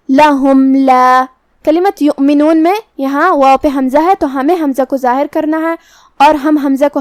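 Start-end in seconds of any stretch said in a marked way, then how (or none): 0.1-1.2 لَهُمْ لَا with the meem closed clearly, no nasal hold. Shown as a demonstration. Teacher showing izhar shafawi, slow demo. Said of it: "ہمیں اسے ظاہر کرنا ہے اور بغیر غنہ".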